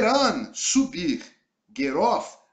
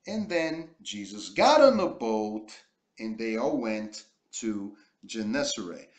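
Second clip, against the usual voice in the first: slow, careful English reading; model reading. Shown as a demonstration. Teacher reading the story aloud to the class. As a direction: read it out clearly for learners to follow.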